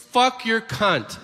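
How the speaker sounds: high, drawn-out blurt; Tourette's outburst. Acted. Kid in the church row interrupts the priest, high blurted outburst. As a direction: blurt it out slowly and high, like an uncontrolled tic.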